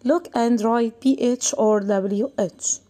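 very slow, clear classroom instruction. Shown as a demonstration. Teacher reading the task to pupils, very slow. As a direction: spell out the task slowly. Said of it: "reading instruction to class".

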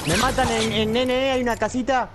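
urgent, high-pitched team callout; excited callout. Real, not acted. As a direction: shout the enemy position urgently. Atacado, avisa al equipo. (aviso urgente y agudo)

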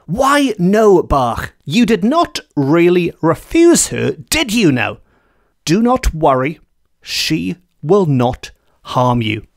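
lightly voiced kindly old farmer; reassuring farmer. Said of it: "To which he replied".

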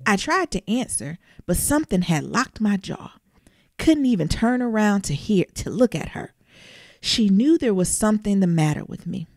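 slow, steady folktale reading voice; story reading. Acted. Reader telling listeners a scary folktale, measured. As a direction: read it to them like a spooky tale. Reads folktale aloud in first person.

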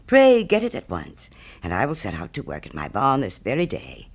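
lightly voiced pompous miller with big pitch swings; emphatic, swooping miller's speech, lightly characterised; self-satisfied miller. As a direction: play a miller grandly praising his own generosity. Miller in the story.

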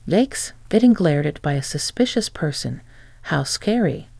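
a hint of fake fright, dripping sarcasm; sarcastic mock fear. Ex-wife taunts her glaring ex-husband, in sarcastic mock fear. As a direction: pretend to be scared, clearly mocking. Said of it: "sarcastically with a hint of mock fear".

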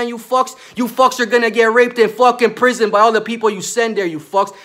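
real rage, shouting them down; furious shout. Real, not acted. Man yelling at judges over altered evidence, furious.

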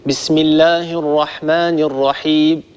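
الرحيم ending with the meem cut short, almost a b; final meem of الرحيم clipped toward b. Shown as a demonstration. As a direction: bism allah ... الرحيم with a chopped-off final m. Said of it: "هكذا يبتر صوت الميم".

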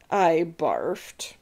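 sick, whispered confession; whispering. Acted. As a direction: breathe it out weakly. Seasick boy confesses.

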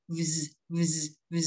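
"v" buzzed straight into a Z; short separate bursts of "vz"; voiced VZ cluster. Shown as a demonstration. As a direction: let the throat buzz through "v" and Z. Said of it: "hữu thanh đó là âm Z".

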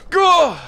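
loud, high yelp; startled yell. Real, not acted. Player startled by the game, loud yelp. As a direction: yell out in sudden alarm.

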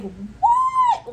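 very high, disbelieving "What?"; stunned what. Retold or imitated. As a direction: shriek it out in total shock. Client hearing surprising news.

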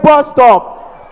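high call-out after long blocking; finally blurted out. Acted. Stammerer finally calling his stop, high blurt. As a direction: force the words out at last. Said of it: "As the bus reached Cape Coast".

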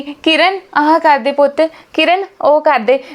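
lazily bossing the new bride around from her seat; mock bossy summons, drawn out on the name; bossy mother-in-law. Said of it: "ਆਪ ਰਮਾਨ ਨਾਲ order ਕਰੇਗੀ".

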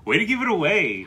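loud, high playful protest; mock outrage. Real, not acted. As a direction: cry out in fake indignation.

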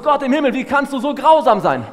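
anguished plea. Retold or imitated. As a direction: cry out to God in disbelief. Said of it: "Und wir fragen uns".

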